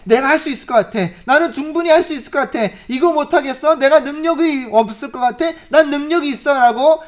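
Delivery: loud, swelling with pride; proud, boastful self-talk. Retold or imitated. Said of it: "이런 자만한". (자만에 차서 큰 소리로 떠드는 목소리)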